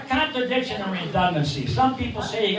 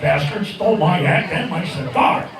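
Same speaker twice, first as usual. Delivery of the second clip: puppet bird voice; 5 semitones lower than usual. Acted.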